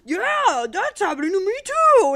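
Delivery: high, put-on gushing voice; a bright mocking imitation of a Twitter normie; lightly voiced clueless poster. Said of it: "were like".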